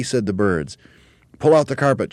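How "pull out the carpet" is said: high, loud command; Mugglewump shouting. A narrator's reading. Monkey leader to helpers, shouting. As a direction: bellow the order, pitched up. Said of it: "shouted Mugglewump".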